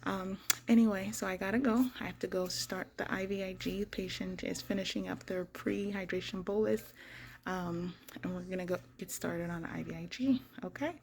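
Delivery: muffled behind a mask; talking through a mask; through a face mask. Real, not acted. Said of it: "And excuse the mask".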